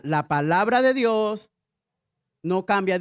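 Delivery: slow, spaced phrase for the church; slow call to repeat. Shown as a demonstration. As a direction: say it slowly so all can repeat.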